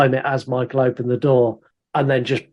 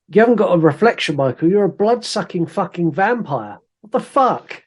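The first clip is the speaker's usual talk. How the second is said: put-on 1 accusing kid; 6 semitones higher than usual. Sam accusing Michael of vampirism.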